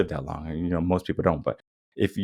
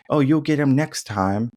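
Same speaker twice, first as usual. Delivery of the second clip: mock consoling; 5 semitones higher than usual. Parent brushing off a loss, mock consoling. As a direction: lightly parody a cheerleading parent.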